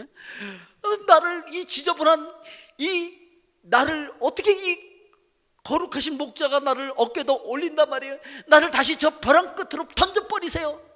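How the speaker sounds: the sheep refuses the holy shepherd in a loud high voice; protesting sheep. Pretend. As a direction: cry out as an unworthy sheep, pitched high. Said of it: "라고 말하지 않죠".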